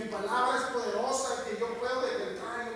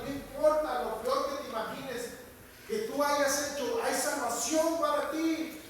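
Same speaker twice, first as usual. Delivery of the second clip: rising, louder, insistent pulpit call; fervent preaching; 4 semitones higher, 4 dB louder than usual. Retold or imitated. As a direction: build the plea to the animals into a cry.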